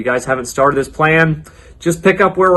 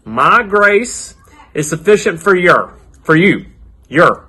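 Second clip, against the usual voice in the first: put-on cowboy accent; 2 semitones higher than usual. Children's leader teaching the memory verse, hammed-up cowboy accent. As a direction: put on a playful cowboy twang, stretching the phrases. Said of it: "do my best cowboy accent for y'all".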